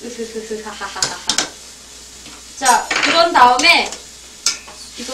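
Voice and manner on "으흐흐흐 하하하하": quiet embarrassed giggle; soft giggle. Real, not acted. Cook laughing off the splatter, quiet giggle. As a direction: laugh it off softly after the sting.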